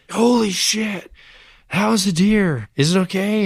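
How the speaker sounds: imitating a friend's high, startled yelp; shocked outburst. Friend in the passenger seat reacting to hitting a deer, high shocked yelp. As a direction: squeal it out like you just hit something. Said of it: "he was like".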